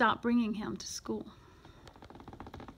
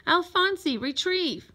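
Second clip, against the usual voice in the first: higher-pitched call to a pet; calling a command; 6 semitones higher than usual. A narrator's reading. Boy training his tadpole, calling out a command. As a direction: call out the order.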